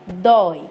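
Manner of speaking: "dói" with a clearly open ó; teacher's demonstrated open "dói"; open diphthong. Shown as a demonstration. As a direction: open the vowel of "dói" wide before the i. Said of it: "eles são ditongos abertos".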